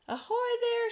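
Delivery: high, loud hail upward; police shouting. A narrator's reading. Police calling up to the travelers, loud and high. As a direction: hail them from far below. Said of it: "shouted the police".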